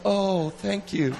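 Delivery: slow, laughing polite brush-off; awkward reply. Retold or imitated. The date answering a confession, an awkward laughing thank you. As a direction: let them down kindly, half laughing. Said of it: "the dreaded thing of".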